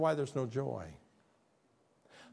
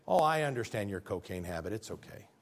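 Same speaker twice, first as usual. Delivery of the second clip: mock sympathy; 4 semitones lower than usual. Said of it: "It's almost like me saying".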